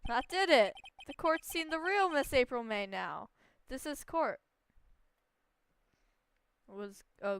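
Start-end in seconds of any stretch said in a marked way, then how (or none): 0.1-4.4 louder gloating declaration; lightly voiced triumphant prosecutor. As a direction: savour the final blow.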